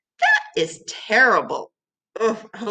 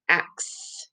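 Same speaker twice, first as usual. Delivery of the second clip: "Axe" whispered softly; whispered word; 7 dB quieter than usual. Shown as a demonstration. Teacher whispering the word for the class.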